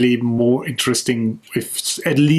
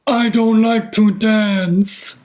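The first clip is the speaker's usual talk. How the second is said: high, slow put-on silly voice; terrible silly voice; 9 semitones higher, much slower than usual. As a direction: drag it out in a goofy high voice. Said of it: "That was the terrible voice of".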